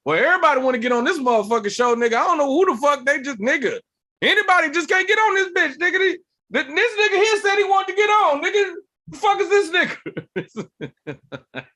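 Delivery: high, loud mock tirade at a newcomer; hammed-up shouted disbelief; abrasive drunk uncle. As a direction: rant like an outraged drunk uncle, breaking into a laugh at the end. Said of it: "loud, abrasive, drunk uncle energy".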